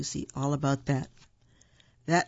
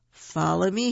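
calling out; 3 semitones higher, 4 dB louder than usual. Acted. Bear calling his friend to follow, raised voice. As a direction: call the group to follow. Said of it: "he called".

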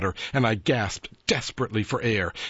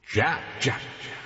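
a hint of an eerie ghost calling; lightly hissed spectral call; ghostly hiss; 5 semitones higher than usual. A narrator's reading. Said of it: "the voice hissed".

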